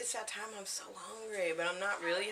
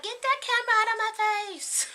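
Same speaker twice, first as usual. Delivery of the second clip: much higher, louder, fast mock yell; mom yelling; 9 dB louder than usual. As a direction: imitate an annoyed mom shooing the camera. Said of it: "She'd be like".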